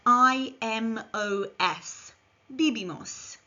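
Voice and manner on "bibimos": "bibimos" with b sounds, falling; model Spanish verb. Shown as a demonstration. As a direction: say "bibimos" clearly for learners. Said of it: "Repeat after me".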